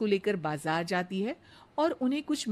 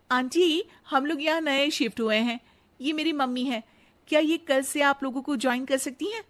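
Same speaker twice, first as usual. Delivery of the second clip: put-on higher, eager young bride's voice; sweet daughter-in-law; 6 semitones higher, 3 dB louder than usual. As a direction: flatter the mother-in-law sweetly. Radha asks the auntie.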